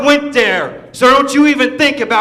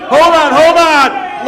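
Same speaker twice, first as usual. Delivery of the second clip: slow loud interruption; 4 semitones higher, 4 dB louder, slower than usual. Real, not acted. Heel interrupts with mock concern.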